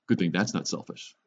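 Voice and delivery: dry sarcastic remark; sarcasm. Acted. Preacher needling believers who live for what they want, sarcastic. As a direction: say it with understated sarcasm. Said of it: "That's called sarcasm, folks".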